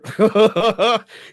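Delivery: loud, high wordless yelling noise; imitated phone yelling. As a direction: mimic someone hollering down a phone. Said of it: "hear him on that phone yelling".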